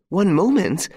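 high, loud frantic echo; mother panicking over her son, frantic cry. Acted. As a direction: throw his words back in panic. Frantic mother echoes him.

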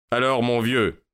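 lightly voiced older gentleman, brisk greeting; hearty greeting. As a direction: greet an old fellow with a touch of bluster. Trevor greets the sailor.

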